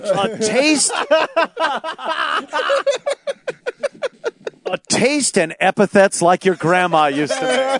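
lightly voiced commercial read; ad announcer. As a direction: sell it like an old sauce ad. Parody Prego commercial.

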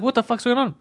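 high-pitched bewildered alarm; freaking out. Retold or imitated. Patient with high blood pressure reading, freaking out. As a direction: squeal it as a retold freak-out. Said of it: "so I was freaking out".

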